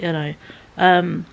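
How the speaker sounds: ordinary talk, nothing marked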